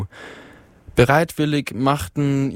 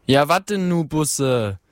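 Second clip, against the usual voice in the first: a higher Ruhr heckler pushing on; impatient heckler; 3 semitones higher than usual. Acted. Heckler urging Busse to get to the point, impatient. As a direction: hurry the speaker along.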